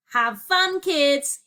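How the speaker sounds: high, loud gleeful send-off; gleeful taunt. A narrator's reading. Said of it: "he laughed".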